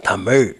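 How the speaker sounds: TAMIL, low, ending in curled zh. Shown as a demonstration. Teacher showing how to pronounce, TAMIL with curled zh. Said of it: "you know, pronounce".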